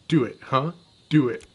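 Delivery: loud taunting yell; loud dare. Acted. Scammer shouting a dare at the shopkeeper, loud taunt. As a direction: dare him to call the cops. Daring him to call police.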